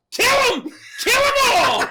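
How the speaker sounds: high, loud commanding shout; hammed-up rallying yell; mock battle cry. Voicing Billy ordering gremlins killed, high mock shout.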